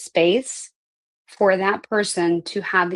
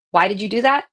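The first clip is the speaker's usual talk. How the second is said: blaming why; 3 semitones higher, 4 dB louder, faster than usual. Shown as a demonstration. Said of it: "shamey blaminess".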